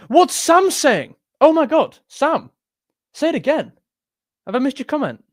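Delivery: high-pitched incredulous appeal; exasperated bafflement. Real, not acted. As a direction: cry out in bewilderment at a viewer. Baffled appeal to viewer Sam.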